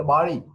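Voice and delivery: বাড়ি said as "ba-ri" with an open a; mispronunciation demo. Shown as a demonstration. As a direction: say বাড়ি with a first vowel aa. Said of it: "উচ্চারণটা নিয়ে problem আছে".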